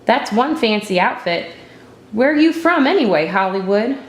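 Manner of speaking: put-on a tough kid jeering at the city girl's outfit; mocking tease. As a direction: tease the new girl with a sneer. Tough boy mocks newcomer.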